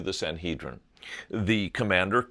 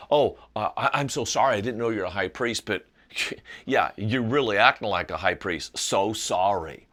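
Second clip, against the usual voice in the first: mock-sorry, dripping with sarcasm, a laugh slipping through; sarcastic apology. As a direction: fake an apology you don't mean. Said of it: "what he's saying is not".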